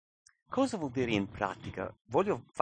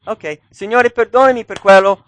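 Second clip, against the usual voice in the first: breezy careless prayer; 10 semitones higher, 17 dB louder than usual. Acted. Hasty careless prayer voiced.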